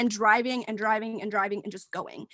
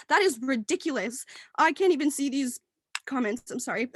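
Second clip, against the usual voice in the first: laughing. Real, not acted.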